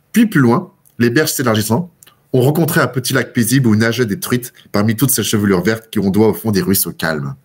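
measured literary read-aloud; teacher reading a Maupassant description to students; story reading. Acted. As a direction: read the passage to the class, evenly.

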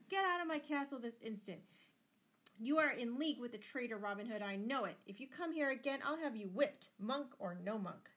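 loud, high angry dismissal; thundered. A narrator's reading. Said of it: "thundered Lord Fitzwalter".

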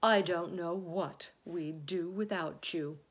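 slow, fond admiring praise; lightly voiced doting old grasshopper; affectionate. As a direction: linger gratefully over each phrase. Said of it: "laying a front leg affectionately".

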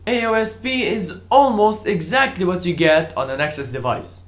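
"almost" picked out with extra emphasis. Real, not acted. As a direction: stress the word "almost". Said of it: "Emphasis on the word".

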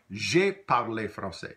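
J'ai parlé français said slowly and deliberately; teacher models J'ai parlé français slowly; model phrase. Shown as a demonstration. Teacher demonstrates past tense, slow and clear. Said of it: "Try that".

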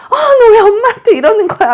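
high, loud, exasperated mother scolding; irritated outburst. Acted. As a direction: act out snapping at the baby in frustration. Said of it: "짜증이 탁 올라와서".

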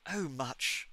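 lightly murmured aside; understated, low murmur. A narrator's reading. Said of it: "murmured the Central".

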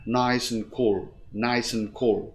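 "nice and cool" run together; "nice and" joined as "nice-n"; linked sounds. Shown as a demonstration. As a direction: carry the S of "nice" into a reduced "and". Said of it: "chữ S cuối cùng luyến sang and".

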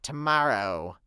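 low, slow, foreboding voice; ominous announcement. Acted. Fluttershy announcing that the war starts tomorrow, ominous and low. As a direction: let the dread sink in.

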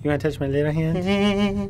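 slow, mock creature question, rising; spider character voice. Player voicing the spider in the game, slow creature voice. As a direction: play the spider asking, drawn out. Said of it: "he's like".

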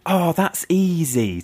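mock cocky singled-out schoolkid; showing off. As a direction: imitate a kid showing off, stretched out. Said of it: "I also went".

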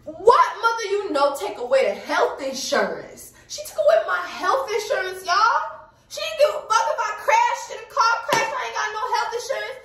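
high-pitched, incredulous ranting; retold outrage at mom. Daughter fuming that mom cancelled her insurance, retold high-pitched outrage. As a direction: replay the fury in a squealing high pitch. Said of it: "I was so mad at my mom".

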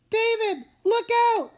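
high alarmed cry to the driver; frightened warning. Acted. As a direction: shout the warning in panic. Crash about to happen.

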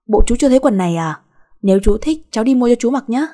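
sassy retort. Acted. Girl talks back to the man.

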